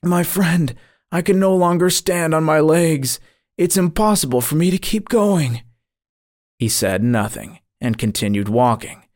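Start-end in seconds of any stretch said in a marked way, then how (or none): 0.0-5.6 high, strained plea as if winded; mildly acted panting exhaustion, pitched up. A narrator's reading. Exhausted dreamer tells his guide he cannot go on, panting. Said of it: "said to my guide, panting".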